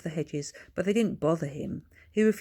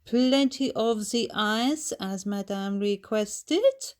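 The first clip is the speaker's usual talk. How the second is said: high, slow maid's voice; a fussy servant reporting back; 5 semitones higher, 3 dB louder, slower than usual. A narrator's reading. Maid Edith tells her lady about the ice, slow and high.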